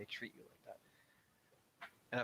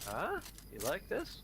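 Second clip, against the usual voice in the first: pushy holiday host; 7 semitones higher, slower than usual. Retold or imitated. Mocking a smug host pushing food on a guest, high and overbearing. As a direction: lay on the hospitality too thick.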